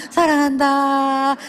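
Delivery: slow, dragged-out grudging words; forced reluctant praise. Retold or imitated. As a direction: say it only because you're poked. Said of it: "콱콱 찔르면". (억지로 느리게 끌며 말하는 아빠)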